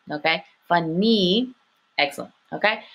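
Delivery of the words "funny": Funny with a held N and long EE; drawn-out phonics Funny; long E ending. Shown as a demonstration. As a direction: stretch the final EE of Funny. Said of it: "the Y has the E sound".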